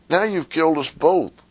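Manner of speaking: frog voice. Retold or imitated. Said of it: "And he says".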